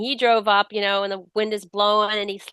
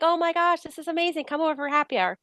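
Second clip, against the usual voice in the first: high-pitched, delighted reply; delighted surprise; 9 semitones higher than usual. Retold or imitated. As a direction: imitate a friend thrilled to hear from you. Friend's delighted reply on radio.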